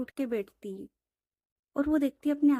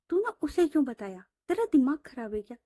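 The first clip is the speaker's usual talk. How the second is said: angry scolding; 3 semitones higher than usual. Acted. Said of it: "रिया पर गुस्सा कर रही थी".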